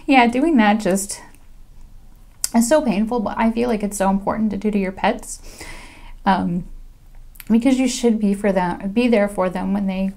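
holding back tears; emotional. Real, not acted. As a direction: voice thick with real emotion. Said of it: "Just talking about it is making me so emotional".

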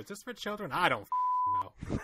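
squeaky high-pitched mock panic; high mock squeal. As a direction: squeal it like a startled kid. Mock podcast intro reenactment.

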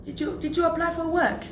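high, slow questioning phone voice; quoting the caller. Retold or imitated. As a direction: play the caller asking kindly, drawn out.

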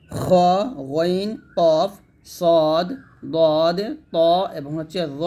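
খ, গইন, কফ, সদ said thick and full-mouthed; drawn-out heavy Arabic consonants from খ to র; heavy letters. Shown as a demonstration. Teacher listing the seven thick letters, each said heavy. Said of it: "এই সাতটা হরফ সবসময় মোটা হবে".

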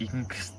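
"English" squashed into "ing-ksa", losing the l; stiff-tongued "English" with a k for the gl; mispronounced English. Shown as a demonstration. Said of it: "สำเนียงมันไม่ถูกครับผม".

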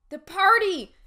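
high, very loud burst; sudden realization. Acted. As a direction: blurt it as it hits you. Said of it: "Josh suddenly remembered".

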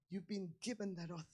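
fast voiceless whisper; urgent whisper. Acted. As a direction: rush it out in a whisper.

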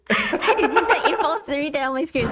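laughing correction. Real, not acted. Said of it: "Sorry, I don't know how to read".

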